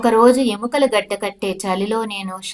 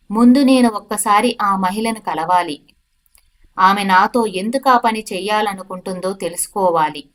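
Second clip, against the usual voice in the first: louder, angry demand; said loudly; 3 dB louder than usual. Acted. Prisoner to constable, demanding to meet the woman, loud. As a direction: insist loudly, a little louder than the telling. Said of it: "అని నేను గట్టిగా అన్నాను".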